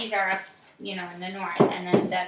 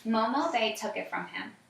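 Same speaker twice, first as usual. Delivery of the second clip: put-on reading aloud to a child, evenly; story narration. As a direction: tell the story calmly.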